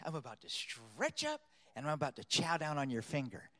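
softly voiced bird's warning; quiet threat. Voicing the bird's sly threat.

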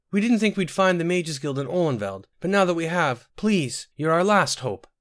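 high-pitched tearful pleading. A narrator's reading. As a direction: plead with them, close to tears. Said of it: "said Sinetta tearfully".

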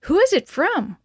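eager high rush of questions; excited kids all talking at once; excited children. A narrator's reading. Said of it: "we all cried at once".

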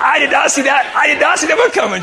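loud, high exclamation of dismay; exasperated shout to the crowd; comic dismay. Acted. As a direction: blurt it out, caught off guard.

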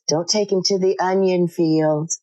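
mock shout from a worried dad; dad hollering after the truck; dad calling out. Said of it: "my dad goes".

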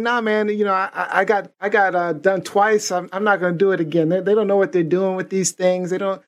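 put-on retelling a Hispanic man's refusal in his accent. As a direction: imitate the Hispanic man at the tire shop. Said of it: "doing the accent".

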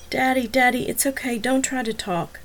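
calm him so he stops talking; tender soothing. Acted. Daughter soothing dying father.

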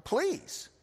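high, disbelieving "Please?"; incredulous echo. Retold or imitated. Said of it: "I remember going".

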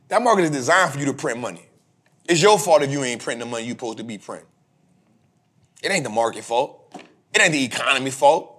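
low, soft, fast self-scolding; talking himself down, low and quick; inner self-talk. Retold or imitated. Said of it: "it's me telling myself".

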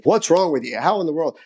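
mild mock scolding from a frustrated father; mock exasperated dad. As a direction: lightly play the impatient dad scolding. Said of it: "Dad's gonna not say".

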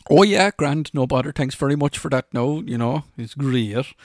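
hammed-up cheerful Irish yes; eager agreement. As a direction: go along with it, all cheerful. Himself accepting, mock cheerful.

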